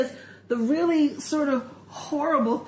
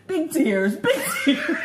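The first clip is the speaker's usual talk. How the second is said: laughing imitation; 4 semitones higher than usual.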